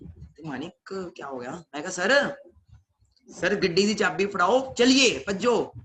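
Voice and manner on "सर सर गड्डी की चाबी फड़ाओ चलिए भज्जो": urgent plea. Retold or imitated. Urging sir for keys.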